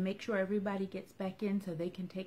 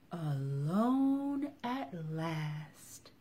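contented sigh line; much slower than usual. Acted. Little one's last line.

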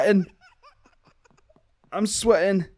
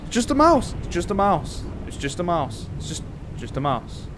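self-reassurance; 4 dB quieter than usual. Real, not acted. Nervous player telling themselves it's a mouse, self-soothing. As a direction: talk yourself down from a fright. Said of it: "to make myself feel better".

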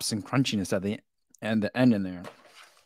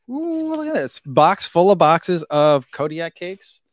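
excited; 4 semitones higher, slower than usual. Real, not acted. Unboxing a new product.

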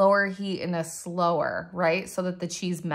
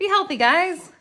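repeated higher and louder as a chant; higher playful cheer; 11 semitones higher, 7 dB louder than usual. Pretend. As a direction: sing it out to the viewers.

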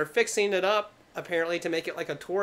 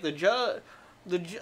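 stuttering janitor; 2 semitones higher than usual. Retold or imitated. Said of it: "The janitor's like".

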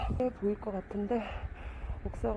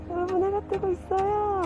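high, loud excited call; 10 semitones higher, 4 dB louder than usual. Real, not acted. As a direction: share the sunrise with a thrill. Excited sunrise announcement.

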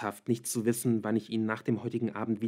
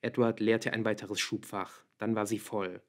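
plain reading voice

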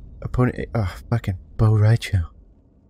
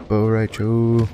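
slow, stretched-out name; drawn-out complaint; much slower than usual. Real, not acted. Player to the hated fighter, drawn-out complaint. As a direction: drag the name out in exasperation.

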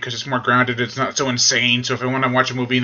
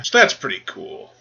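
usual speaking voice

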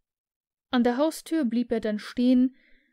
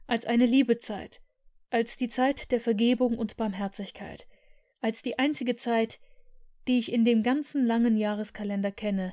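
put-on warm, eager young man making his case; earnest young nephew. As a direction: plead for Christmas with conviction. Nephew's heartfelt defence of Christmas.

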